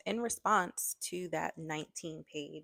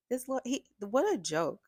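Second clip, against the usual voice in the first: scoffing disbelief; 8 semitones higher, 6 dB louder than usual. Real, not acted. Scoffing at the letter.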